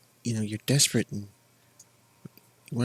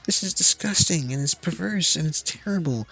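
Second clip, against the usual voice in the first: higher-pitched mock protest; mock indignation; 6 semitones higher than usual. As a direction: imitate an outraged complainer. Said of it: "Meanwhile, Sony is like".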